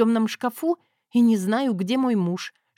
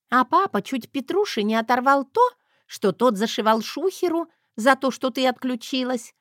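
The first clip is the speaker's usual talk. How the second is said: put-on high, happy girl's chatter; gleeful; 4 semitones higher than usual. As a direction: report it with delight. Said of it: "радостно сообщила".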